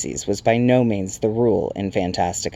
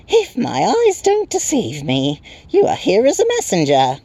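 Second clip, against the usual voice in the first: chirping Tiny; 11 semitones higher, 4 dB louder than usual. A narrator's reading. Tiny creature addressing the newcomer, high chirp. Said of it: "and chirped".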